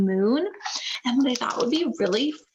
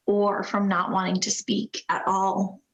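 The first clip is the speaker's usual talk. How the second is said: gentle picture-book narration; story reading. A narrator's reading. Reads picture book aloud.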